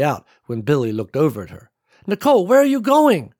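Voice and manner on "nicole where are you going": alarmed call. A narrator's reading. Billy calls out to Nicole.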